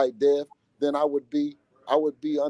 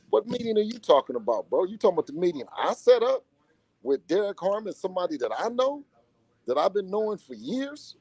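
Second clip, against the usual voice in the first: indignant retort; 6 semitones higher than usual. Retold or imitated. Dad retorting about the meeting he set up, indignant. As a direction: throw it back as a string of disbelieving questions.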